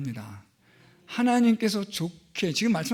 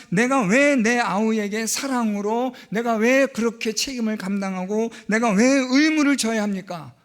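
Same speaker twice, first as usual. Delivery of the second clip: defiant retort; 3 semitones higher, 4 dB louder than usual. Retold or imitated. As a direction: voice Cain talking back to God. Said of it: "하나님께 대드는 거예요".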